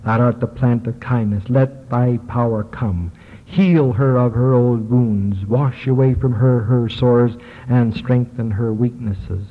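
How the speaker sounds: slow, measured liturgical reading; solemn prayer reading. Acted. Teacher reading an ancient prayer to the class, slow and solemn. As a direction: intone each line like a blessing over the sick. Reads an anointing prayer aloud.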